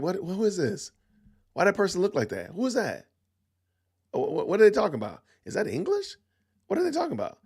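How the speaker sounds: mock confused alumni; puzzled old alumni. Alumni reacting to a rapper, hammed-up confusion. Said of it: "the alumni are like".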